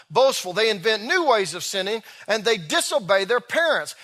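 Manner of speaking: steady sermon reading voice; scripture reading. Acted. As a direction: read the Bible passage aloud to the congregation. Preacher reads scripture passage.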